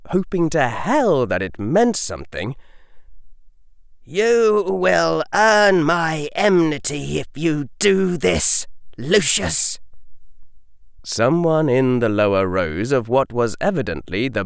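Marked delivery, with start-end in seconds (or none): 4.0-9.8 cool and deadly. A narrator's reading. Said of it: "his voice cool and deadly".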